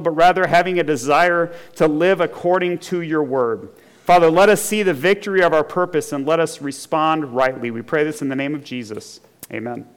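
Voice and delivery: prayer. Real, not acted. Leads a prayer.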